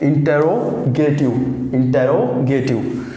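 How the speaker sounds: इंटेरोगेटिव said slowly, r after the o sounded; model pronunciation. Shown as a demonstration. Teacher repeats इंटेरोगेटिव as the model. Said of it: "ये वाला आर नहीं pronounce होगा".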